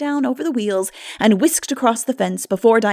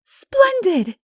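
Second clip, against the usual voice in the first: bright burst, much higher; cheerful exclamation, pitched up; gaily; 13 semitones higher, 6 dB louder than usual. A narrator's reading. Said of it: "agreed Anne gaily".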